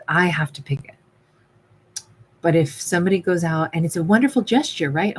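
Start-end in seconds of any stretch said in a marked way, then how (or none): 0.1-0.9 whispered aside, almost to herself; hushed confiding whisper. Real, not acted. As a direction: drop to a breathy whisper for the point. Aside about choosing her own car.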